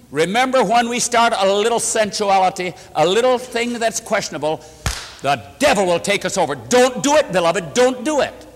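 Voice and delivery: preacher's urgent plea; urgent warning. Real, not acted. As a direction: warn the congregation with force. Preacher urgently warns congregation.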